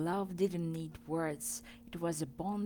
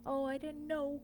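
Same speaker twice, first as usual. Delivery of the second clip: kindly; 7 semitones higher, faster than usual. Acted. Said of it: "he replied kindly".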